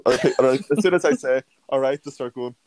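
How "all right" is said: higher-pitched quoted "all right"; own drag greeting. Retold or imitated. Drag queen quoting own greeting to fans, lifted. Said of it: "That's a bit of a deep voice".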